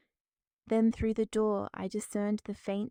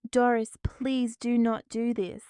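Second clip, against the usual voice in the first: desperate plea; 3 semitones higher, 6 dB louder than usual. Acted. Pleading as door closes.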